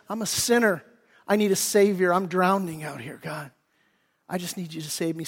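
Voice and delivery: softly pleading, fading almost to nothing; a quiet, desperate prayer to God; hushed plea. Pretend. Voicing a sinner's desperate plea.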